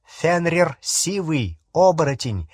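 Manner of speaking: plain reading voice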